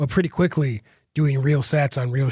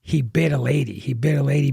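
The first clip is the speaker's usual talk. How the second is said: normal talking voice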